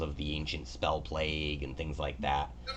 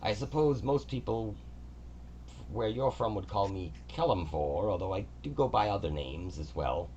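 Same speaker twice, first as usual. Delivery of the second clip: a higher, measured divine voice greeting the visitor; god Kelemvor; 4 semitones higher than usual. Acted. God Kelemvor greets the adventurer Valk, higher and stately. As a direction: speak as a gracious, orderly god.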